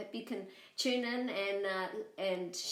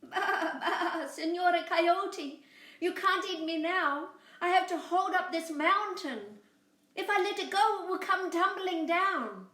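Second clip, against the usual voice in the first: high bleating lamb voice, louder; 10 semitones higher, 6 dB louder than usual. Acted. Lamb tricking the coyote, high bleating voice. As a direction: bleat the words like a little lamb. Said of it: "Boragita bleated".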